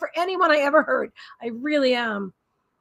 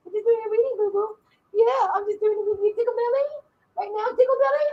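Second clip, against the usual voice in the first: much higher, playful mommy voice; 9 semitones higher than usual. Real, not acted. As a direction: coo to a beloved pet. Baby talk to the pet.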